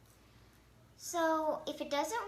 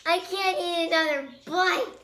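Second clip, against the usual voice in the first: laughing; 8 dB louder than usual. Real, not acted. Gagging on popsicle, laughing.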